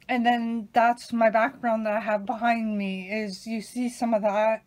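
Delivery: talking while chewing gum; chatting with gum in mouth. Real, not acted. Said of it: "And I'm chewing gum right now".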